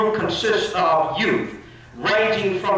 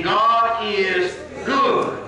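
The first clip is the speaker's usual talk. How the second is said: slow, drawn-out line for the congregation to echo; preacher cueing the church, slowly; call-and-response lead; 3 semitones higher, much slower than usual. Real, not acted. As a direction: draw it out and lift the end.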